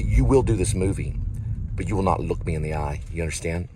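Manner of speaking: half-hearted scolding of an imaginary co-star; mock yelling rant. Telling off Mark Wahlberg on set, mock angry rant. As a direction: lay into him like a bossy director. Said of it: "I didn't mean to yell at you".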